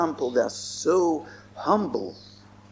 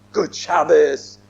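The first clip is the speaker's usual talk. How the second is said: slow, drawn-out greeting, clearly voiced; audible, deliberate street greeting; greeting said aloud; 4 semitones lower, 3 dB louder, slower than usual. Shown as a demonstration. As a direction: say the greeting out loud, stretched and lower. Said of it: "Say it aloud".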